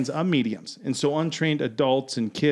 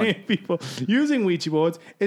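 put-on British accent; 3 semitones higher, faster than usual. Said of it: "I gotta stop using this accent".

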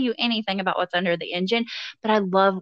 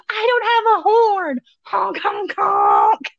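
high, loud goofy honking; silly clown; 11 semitones higher, 4 dB louder, slower than usual. Retold or imitated. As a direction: shout the honks like a clown. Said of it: "I'm like".

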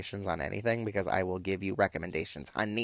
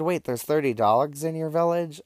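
high, incredulous retold question; mock astonishment, pitched up throughout; astonished question; 7 semitones higher, 4 dB louder than usual. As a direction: read the friend's disbelief with raised pitch. Acting out friend's astonished text reply.

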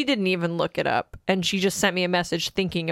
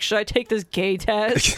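laughing quote; slower than usual. Retold or imitated. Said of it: "Liam being like".

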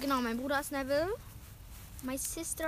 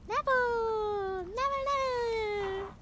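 slow, higher, hammed-up crying; mock wail; 8 semitones higher, slower than usual. Girl drawing Neville as her brother, mock wail. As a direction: fake a wail over the card.

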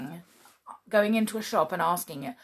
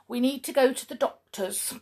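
put-on higher, louder little girl telling Grandma; imitating little daughter; 6 semitones higher, 6 dB louder than usual. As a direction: mimic a worried small child. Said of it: "she said to her".

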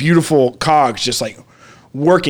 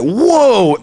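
higher drawn whoa; awed whoa; 5 semitones higher than usual. Retold or imitated. Staring at bright stars, awed. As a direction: breathe out wonder.

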